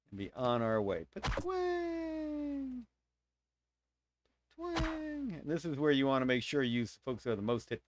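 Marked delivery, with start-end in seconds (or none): 1.4-5.4 high, long, softer twangs; drawn-out "twaaang" sound effect; imitated bowstring twang. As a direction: mimic arrows ringing out on high. Imitates bow shots in game.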